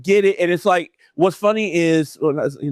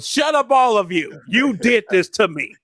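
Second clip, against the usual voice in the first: raised, high mock accusation; mock angry outburst; 6 semitones higher than usual. Marlon blaming his brothers after the beating, mock outrage. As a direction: lash out at them, playfully indignant.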